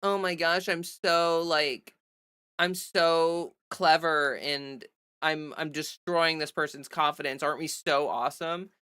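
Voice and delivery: lightly mocking, drawn-out gushing; mock self-congratulation. Streamer mimicking smug trolls in the chat, mock self-congratulation. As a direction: imitate trolls pleased with their own cleverness. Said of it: "they think that they're like".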